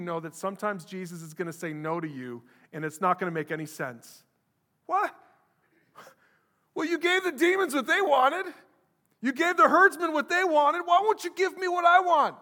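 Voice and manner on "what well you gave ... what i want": much higher, loud whining protest; whiny complaint. Retold or imitated. Healed man protesting to Jesus, high and whining. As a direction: whine like a spoilt child denied.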